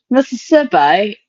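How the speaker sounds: slow mock British Mississippi; mock British accent. Shown as a demonstration. Friend showing how the word sounds, in a mock British accent. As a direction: stretch Mississippi out in a posh-ish British way. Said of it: "that sounds British".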